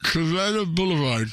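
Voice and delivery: mumbled around gauze; gauze in mouth. Real, not acted. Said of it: "I got gauze in my mouth".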